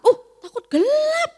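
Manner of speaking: put-on playful teacherly shock at a child's answer; mock surprise. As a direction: gasp it back like it's shocking news.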